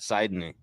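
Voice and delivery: low, soft echo of Sidney with a long I; Sidney echoed as SIDE-nee. Retold or imitated. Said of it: "Oh, I like that".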